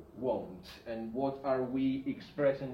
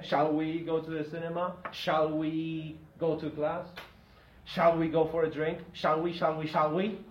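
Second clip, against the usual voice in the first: louder rising model questions; loud classroom model phrases; modelling suggestions; 2 semitones higher, 5 dB louder than usual. Shown as a demonstration. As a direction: sell each suggestion brightly. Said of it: "a suggestion with shall".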